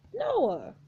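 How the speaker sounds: calling out. Acted.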